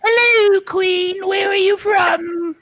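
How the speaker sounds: slow shouted parroting of the question; mocking echo. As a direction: echo back in a hammed-up cry. Mimicking interviewer's question.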